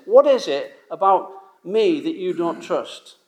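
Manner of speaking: slow, searching question in God's voice; lightly voiced God, slowed and pleading; God asking gently. Preacher imagines God asking his doubting people, slow and searching. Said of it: "imagine God saying".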